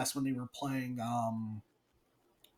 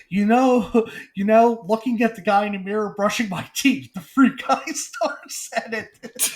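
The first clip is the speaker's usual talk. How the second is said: laughing; 3 semitones higher, 4 dB louder than usual. Retold or imitated. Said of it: "and I'm like".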